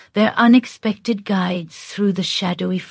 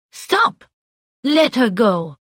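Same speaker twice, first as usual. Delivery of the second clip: fierce cry; 3 semitones higher, slower than usual. A narrator's reading. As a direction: shout at it fiercely. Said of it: "With a fierce cry".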